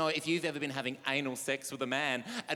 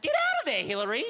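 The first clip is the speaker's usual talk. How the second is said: loud, much higher outburst mid-orgy; blurted shout; 11 semitones higher, 5 dB louder than usual. Retold or imitated. Comic yelling at imagined Hillary during the orgy, loud high outburst. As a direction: yell it out before you can stop. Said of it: "I said out loud".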